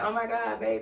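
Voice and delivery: soft, high mock-tearful plea; fake crying. Woman lying to her boyfriend about gas, fake crying. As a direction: put on a small, badly faked cry. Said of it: "started fake crying".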